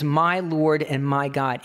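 "My Lord and my God." drawn out very slowly; slow solemn confession. Acted. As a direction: give each word of "My Lord and my God." its own weight. Thomas's confession repeated.

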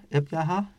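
έπιαχα with a breathed h instead of χ; English-style h. Shown as a demonstration. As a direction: soften the χ of έπιαχα into plain breath. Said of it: "Είναι όπως το γερμανικό το, ή το αγγλικό το H". (έπιαχα με δασύ h αντί για χι)

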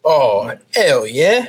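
mock British accent; put-on English accent. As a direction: drop the h in playful English. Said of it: "hit me with your best English accent".

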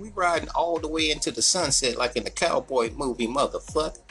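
high, excited cheer; playful hype; hyped. Retold or imitated. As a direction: pump the new guy up. Hyped reply to temp.

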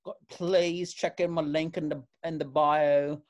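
a hint of influencer gush; light influencer voice. Friend mocking the internet accent, lightly gushing. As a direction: plug your link sweetly. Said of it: "internet accent".

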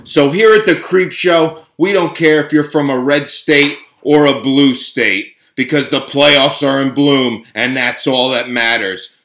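hype show intro. Acted.

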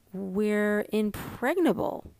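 slow, mock-solemn pronouncement; mock seriousness. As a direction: play it grandly serious, tongue in cheek. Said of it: "said Mom in mock seriousness".

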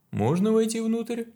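high, loud sly question. Acted. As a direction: ask it with a cunning edge. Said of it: "спросил он с хитрецой".

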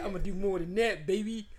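laughing through a teasing quote; mocking laugh.

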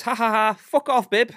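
high, loud mocking cackle; high mocking taunt; mocking Gary. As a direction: taunt like a smug mate. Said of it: "Gary politely says".

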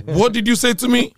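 high, loud, indignant challenge; outraged mother. Retold or imitated. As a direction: imitate a mother who can't believe the backtalk. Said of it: "She was like".

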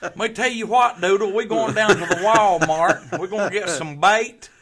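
loud, high, hammed-up Southern accent. Shown as a demonstration. Joking about a bait run to Walmart, broad Southern accent. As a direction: holler it like a Southern good old boy. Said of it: "Do a Southern accent for us".

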